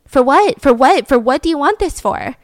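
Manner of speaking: mock-pushy repeated question; intense demanding. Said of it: "they got really intense".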